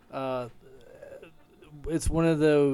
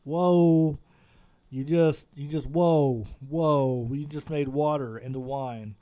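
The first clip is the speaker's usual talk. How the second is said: shocked. Retold or imitated. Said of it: "we'd be like".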